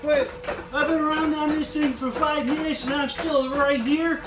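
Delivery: fed up and baffled; exasperated. Real, not acted. Frustrated, stuck in the game.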